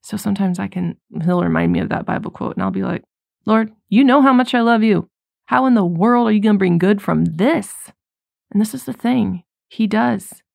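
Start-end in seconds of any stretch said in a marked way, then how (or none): 3.5-7.9 pleading with God. Retold or imitated. Pleading aloud to God in prayer.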